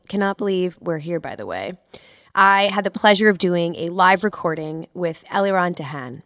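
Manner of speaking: worn, under-the-weather podcast intro voice; host an intro with a voice worn out by sickness; lost voice, sick. Real, not acted. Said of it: "I lost my voice and I'm also kind of sick".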